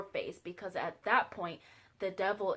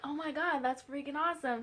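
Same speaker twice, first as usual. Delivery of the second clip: excited; 6 semitones higher than usual. Retold or imitated. Reacts to her revelation.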